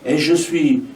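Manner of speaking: measured lines with falling cadences; spoken poetry reading; poem recitation. Acted. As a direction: recite it as verse, pausing between lines. Reads own poem aloud.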